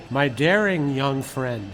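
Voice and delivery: slow, drawn-out imitation of a Viennese accent. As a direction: lightly mimic a Viennese mentor, taking your time. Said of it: "in his Viennese accent".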